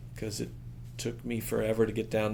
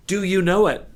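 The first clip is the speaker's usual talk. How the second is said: pressing; 8 semitones higher, 9 dB louder than usual. Retold or imitated. Friend pressing hard.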